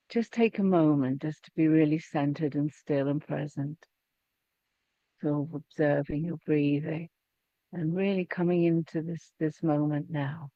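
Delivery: unhurried meditation guide, with pauses; guided meditation. Acted. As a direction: settle them gently into stillness. Guides group into stillness.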